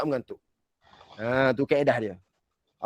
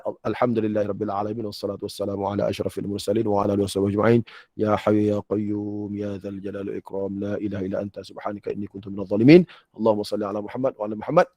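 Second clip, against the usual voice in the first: fast, low run-through of Arabic supplications; sample prayer recitation; 3 semitones lower, faster than usual. Shown as a demonstration. Teacher demonstrating what to say after hajat prayer, quick recitation. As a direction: rattle through the formula as an example. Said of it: "saudara semaya hajat contoh".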